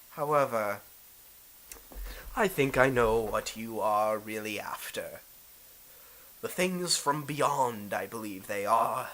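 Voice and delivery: a hint of a scheming lord; understated villain's deliberation; lightly voiced knowing Daimyo. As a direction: let on that you know their game, lightly theatrical.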